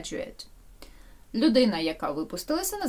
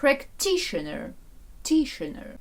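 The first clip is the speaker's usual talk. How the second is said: Practitioner with TI stressed and raised; stress demonstration; 5 semitones higher than usual. Shown as a demonstration. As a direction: lean high on the second syllable of Practitioner. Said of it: "Наголос куди падає?".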